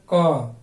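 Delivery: क said as bare k with no vowel; क clipped short, no आ after it; halant consonant. Shown as a demonstration. Teacher demonstrating a pure consonant sound to students. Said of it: "का में हलंत लगा देंगे".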